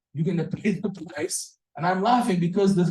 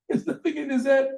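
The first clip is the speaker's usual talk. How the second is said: laughing punchline; 9 semitones higher than usual. Real, not acted. Joke punchline repeated laughing.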